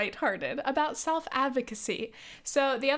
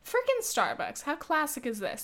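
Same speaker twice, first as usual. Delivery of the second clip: exasperated aside; 5 semitones higher than usual. Real, not acted.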